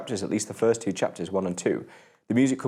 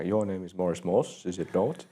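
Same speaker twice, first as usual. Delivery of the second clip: Richard Ayoade impression; 3 semitones lower, 4 dB quieter, slower than usual. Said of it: "too Richard Ayoade in the I T crowd".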